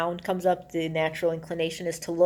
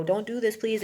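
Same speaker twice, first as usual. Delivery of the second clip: higher-pitched, mildly acted plea; pleading; 4 semitones higher than usual. Sandra Bullock begging Gary to stop, retold mild plea. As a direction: lightly imitate begging him not to. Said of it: "pleading with Gary".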